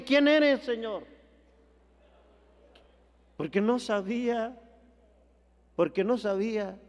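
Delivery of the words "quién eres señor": quoting Saul. Retold or imitated. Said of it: "¿por qué dice".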